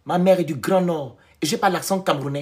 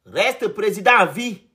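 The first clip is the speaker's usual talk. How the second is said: slow, higher proclamation; drawn-out ceremonial wish; mock acclamation; 4 semitones higher, slower than usual.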